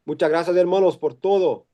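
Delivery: Spanish mixed with Portuguese, Brazilian-flavored; Portuñol. Real, not acted. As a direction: thank the crowd in Portuñol. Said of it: "can I speak in Portuñol?".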